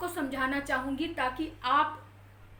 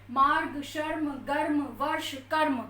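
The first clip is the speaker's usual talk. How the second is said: मार्ग, शर्म, गर्म, वर्ष, कर्म each with the weight on the last sound; stress on final letter. Shown as a demonstration. Teacher reading the word list for students. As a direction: list words, light र, hit the end. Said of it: "इस पर हम जोर ना देके इस पर जोर".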